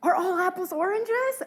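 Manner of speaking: breathless amazed gasp. Speaker retelling their own reaction while explaining a number puzzle, retelling a gasping question.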